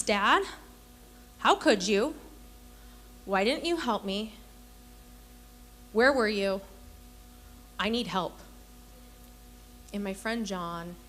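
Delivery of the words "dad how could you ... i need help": imitating an upset child's reproach, tearless; half-hearted wail of accusation at a parent; mock bawling. Fallen son reproaching his dad after too many falls, bawling lightly imitated. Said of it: "embarrassed and ashamed and bawling".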